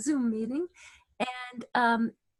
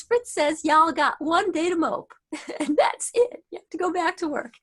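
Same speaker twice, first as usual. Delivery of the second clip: put-on Southern accent; 4 semitones higher, 6 dB louder than usual. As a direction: draw the words out like a Southern boss. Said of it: "she has a deep Southern accent".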